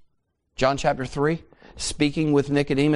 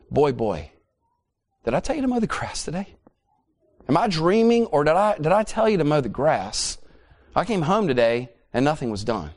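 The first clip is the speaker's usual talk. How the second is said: stern father scolding; 2 semitones higher than usual. Retold or imitated. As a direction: scold the boy like an exasperated dad. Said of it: "He would say something like this".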